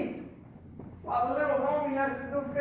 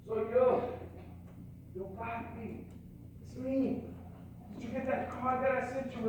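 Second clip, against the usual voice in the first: retold father speaking softly to his child; soft, tentative quoted greeting; gentle coaxing; 8 dB quieter than usual. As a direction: coax a shy little one, hushed and hesitant.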